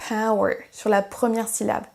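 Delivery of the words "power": "power" with the first syllable stressed. Shown as a demonstration. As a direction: lean on the start of "power", let the second syllable drop. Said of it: "où est-ce qu'on accentue".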